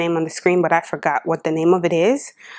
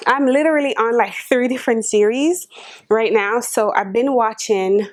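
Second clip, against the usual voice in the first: retainers in, words a bit thick; talking with retainers in; 3 semitones higher than usual. Real, not acted. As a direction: speak around dental retainers. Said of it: "let me take my retainers out".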